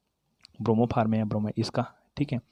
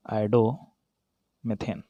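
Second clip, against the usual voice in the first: drawn-out name; much slower than usual. Shown as a demonstration. Teacher spelling out the name.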